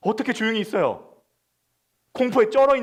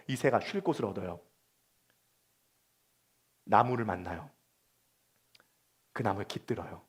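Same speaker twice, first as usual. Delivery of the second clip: much softer, lower, intimate sermon voice; hushed preaching; 12 semitones lower, 12 dB quieter than usual. Acted. Pastor gently consoling the congregation, hushed. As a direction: draw them in close and quiet.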